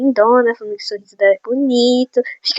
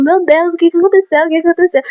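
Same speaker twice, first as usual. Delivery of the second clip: desperate; 5 semitones higher than usual. Retold or imitated.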